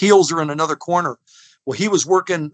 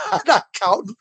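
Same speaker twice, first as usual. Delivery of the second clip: stubborn referee; 6 semitones higher than usual. Retold or imitated. The referee refusing to count the pin.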